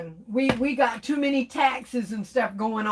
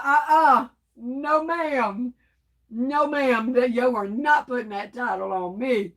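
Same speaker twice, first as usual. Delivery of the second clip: sassy refusal. Retold or imitated. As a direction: refuse it with attitude, playfully. Voicing KOK's sassy refusal.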